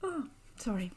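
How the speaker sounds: whispered through a yawn; apologizing mid-yawn. Real, not acted. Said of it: "I'm yawning".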